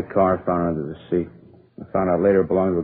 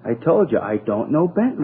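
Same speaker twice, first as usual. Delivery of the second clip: higher-pitched, drawn-out insistence; exasperated denial; 6 semitones higher than usual. Acted. Suspect denies knowing the wanted man, exasperated. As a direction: stretch out the denial, fed up.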